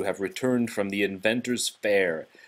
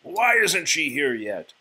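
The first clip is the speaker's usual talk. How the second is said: slow, annoyed growling question; impatient beast; 5 semitones higher than usual. Acted. The beast grumbling to his servants, impatient. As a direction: demand it impatiently. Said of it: "he roared".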